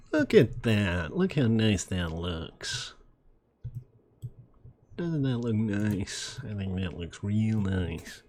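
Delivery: pinched nasal voice, a bit slow. Pretend. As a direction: speak through the nose, slowly. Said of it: "Practicing my nasal voice".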